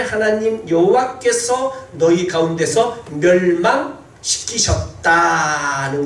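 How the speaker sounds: slow, emphatic Bible reading; scripture reading. Acted. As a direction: proclaim the verse, stretching the words out. Reads scripture aloud in sermon.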